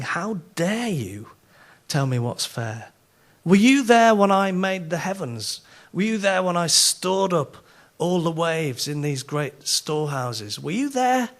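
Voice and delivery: indignant rant, pitch climbing on the challenges; mock divine rant. God rebuking Job for calling life unfair, mild mock rant. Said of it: "there is a fabulous rant from the Almighty".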